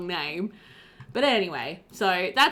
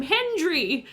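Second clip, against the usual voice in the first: mock delighted; 7 semitones higher, 4 dB louder than usual. Jokingly embraces the misread name.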